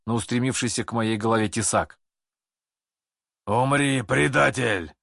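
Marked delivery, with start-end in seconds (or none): 3.5-4.9 shouting. A narrator's reading. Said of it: "прокричал до боли знакомый голос".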